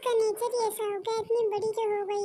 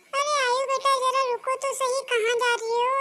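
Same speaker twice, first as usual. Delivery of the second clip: calling after her; 3 semitones higher, 4 dB louder than usual. Acted. Mother calls out to her angry daughter leaving, pleading. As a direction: call out to stop her leaving.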